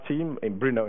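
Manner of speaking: usual speaking voice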